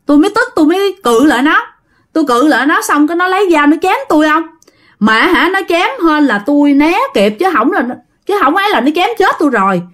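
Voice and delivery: a touch of breathless-style urgency, hurried; agitated recounting. Acted. Mother fleeing knife tells her husband.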